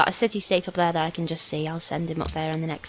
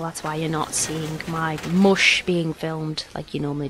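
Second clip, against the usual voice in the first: blocked nose. Real, not acted. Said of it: "I've got a little bit of a sniffle".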